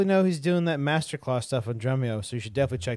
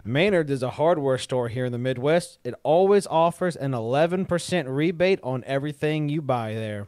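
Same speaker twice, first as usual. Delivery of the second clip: hard sell ad. Shown as a demonstration. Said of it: "Read it like an ad".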